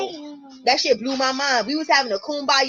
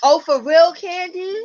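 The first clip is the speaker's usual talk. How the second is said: surprised; 6 semitones higher, 8 dB louder, slower than usual. Real, not acted. Surprised reaction to comment.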